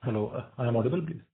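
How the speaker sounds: faint voice on a poor phone line; barely audible. Real, not acted. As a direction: still too soft, far from the mic. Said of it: "Your voice is very low".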